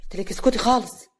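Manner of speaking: loud sharp call, then firm order; scolding yell. Acted. Husband silencing his wife, scolding. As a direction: order her to shut up, scolding. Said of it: "صالح بزعيق".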